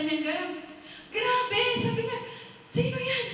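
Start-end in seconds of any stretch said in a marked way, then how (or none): 1.1-1.6 high, loud startled cry; acted panic. Man hearing someone enter his secret room, panicked. 2.7-3.2 high-pitched startled challenge; acted alarm. Man hearing someone enter his secret room, alarmed.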